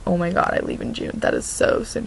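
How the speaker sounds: breath-light, near-whispered awe; retold hushed amazement. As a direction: whisper it, reliving the disbelief. Retold awed reaction to leaving date.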